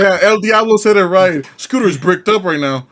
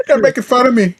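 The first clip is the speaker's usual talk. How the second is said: higher-pitched imitation of an offended streamer; mock whining streamer; 7 semitones higher, 3 dB louder than usual. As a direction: play up the hurt reaction. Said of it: "She's gonna be reacting to this".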